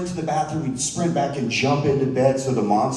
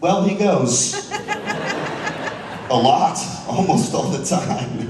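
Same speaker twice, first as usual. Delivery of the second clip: deadpan reply; 3 semitones higher, slower than usual. Retold or imitated. Deadpan parent answer.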